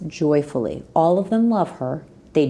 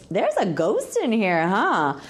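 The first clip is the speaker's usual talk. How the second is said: a teasing, cocky challenge to the ghost; sassy; 3 semitones higher, slower than usual. Retold or imitated. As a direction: toss it out with a sassy little dare. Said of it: "I got all kind of sassy".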